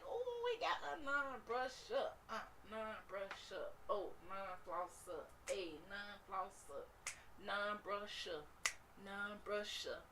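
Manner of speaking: slow, taunting bacteria chant; mock partying germs gloating; gleeful bacteria. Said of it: "They like".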